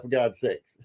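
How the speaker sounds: ordinary talk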